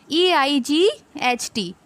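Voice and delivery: slow letter-by-letter spelling; spelling out slowly. Shown as a demonstration. Teacher spelling a word for students, slow and deliberate. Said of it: "इसका spelling क्या हो गया?".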